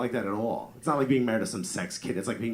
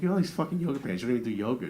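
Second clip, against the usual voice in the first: making fun; 3 semitones higher, much faster than usual. Retold or imitated. Husband mocking wife's unused yoga pants, making fun. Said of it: "I'm, like, making fun of her".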